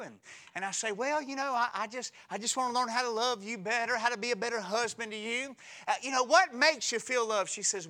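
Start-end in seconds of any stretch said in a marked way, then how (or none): 0.9-7.5 high, quick earnest plea; hammed-up humble husband; pleading husband. Preacher voicing himself pleading with his wife, high and fast.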